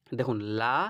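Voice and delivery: লা thin and light. Shown as a demonstration. A Quran teacher to students, contrasting a light লা. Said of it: "আর ল কতটা পার্থক্য".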